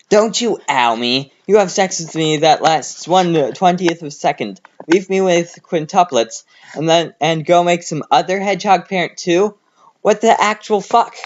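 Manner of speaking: rising to a shriek; angry. A narrator's reading. Amy screams at Sonic.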